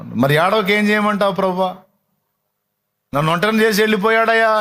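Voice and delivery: high-pitched plaint of an abandoned woman; dramatised lament, pitched high; acted distressed pleading. Voices weeping Mary pleading to Lord.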